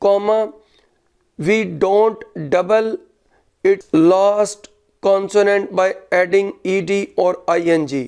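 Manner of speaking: very slow, word-by-word dictation. Real, not acted. Teacher dictating a grammar rule to students, slow dictation. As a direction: dictate it with pauses between phrases, punctuation spoken.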